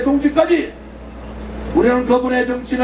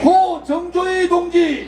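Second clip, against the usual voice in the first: slow, drawn-out call of names; solemn roll call; slower than usual. Real, not acted. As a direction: call each name slowly for the crowd to repeat. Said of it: "한 분 한 분 말씀드리겠습니다". (느리게 부르는 추모 호명)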